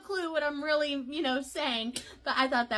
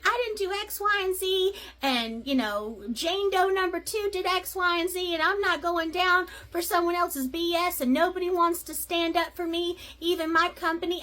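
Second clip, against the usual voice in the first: defensive rant; 5 semitones higher than usual. Retold or imitated. Woman defends herself heatedly.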